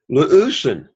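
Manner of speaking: "Leusen" accented on its opening "leu"; first-syllable stress. Shown as a demonstration. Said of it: "accent is on the first syllable".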